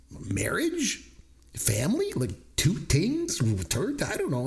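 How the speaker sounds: high, quick-fire guesses flung out; frantic guessing. Retold or imitated. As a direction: throw guesses at her, rising high.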